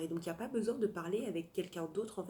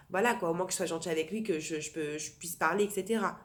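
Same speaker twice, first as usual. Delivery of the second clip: louder, insistent reasoning; imagined self-justifying; 7 dB louder than usual. Retold or imitated. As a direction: act out talking yourself into it, forcefully.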